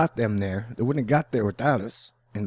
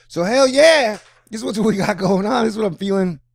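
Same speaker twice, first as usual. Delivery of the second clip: loud, high, pumped-up cheer; excited shout; 9 semitones higher, 8 dB louder than usual. Real, not acted. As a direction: belt it out with excitement. Hyped about the planet alignment.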